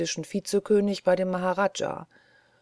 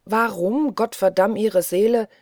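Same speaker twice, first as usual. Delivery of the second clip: exclaiming; 3 semitones higher, 5 dB louder than usual. Acted. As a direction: call out in frustration. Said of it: "rief Oki plötzlich".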